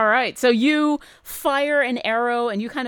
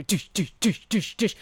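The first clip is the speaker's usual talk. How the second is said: thudding footstep noises; imitated heavy footsteps. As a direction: sound out heavy steps, one by one. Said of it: "you hear from behind you heavy footsteps".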